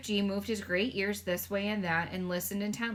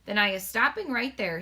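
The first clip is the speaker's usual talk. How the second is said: sharp; 5 dB louder than usual. Acted. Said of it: "said the B F G sharply".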